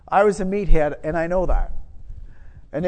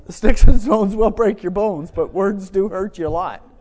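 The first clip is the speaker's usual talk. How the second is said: "Sticks and stones will break your bones" thrown out louder, then settling; louder correction; 6 dB louder than usual. Shown as a demonstration. Preacher correcting the saying to the congregation, louder. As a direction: correct the old saying with force. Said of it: "That's sort of not true".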